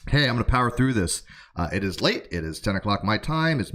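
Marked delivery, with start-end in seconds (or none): 0.1-1.2 jittery, amped-up caffeine energy; wired on coffee. Real, not acted. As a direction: talk fast and buzzy, over-caffeinated. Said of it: "I am really wired on coffee right now".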